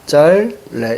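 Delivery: 짤 held, then 네 after a break; demonstrated correct pronunciation. Shown as a demonstration. Teacher showing how it should come out, correct pronunciation. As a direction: stretch 짤 with a final ㄹ, then release into 네. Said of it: "이렇게 나와줘야지".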